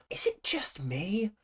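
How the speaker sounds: whispered, quiet and incredulous; hushed aside. Real, not acted. Asking viewers about the costumes, whispered aside. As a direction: drop to a whisper.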